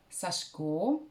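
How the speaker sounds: "Сашко" in two syllables, middle vowel dropped, sash-KO; pronunciation variant. Shown as a demonstration. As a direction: squeeze out the i and stress the final O of "Сашко". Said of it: "что я нашла".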